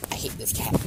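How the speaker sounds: a bitter whisper. Retold or imitated. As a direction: hiss it under the breath with spite. Bakugo sulking after being outdone.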